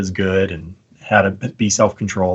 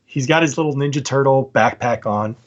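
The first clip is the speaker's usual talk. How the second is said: ordinary delivery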